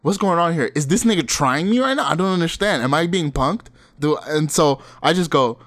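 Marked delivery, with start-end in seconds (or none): 0.0-3.7 bewildered inner voice. Retold or imitated. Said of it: "and I'm like".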